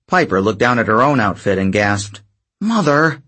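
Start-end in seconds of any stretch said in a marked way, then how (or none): 2.6-3.2 yelling. A narrator's reading. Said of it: "She yelled louder than she meant".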